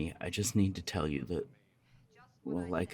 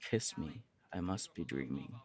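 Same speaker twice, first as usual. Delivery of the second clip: much softer, a low coaxing murmur; soft suggestive line; 3 semitones lower, 6 dB quieter than usual. Shown as a demonstration. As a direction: lure them in quietly. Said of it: "What if I say".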